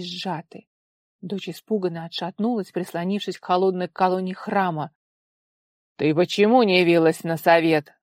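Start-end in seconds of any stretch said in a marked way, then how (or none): 6.0-7.9 barking father. A narrator's reading. Father scolding daughter for skipping council, loud bark. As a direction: snap at her like a furious father. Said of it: "гаркнул отец".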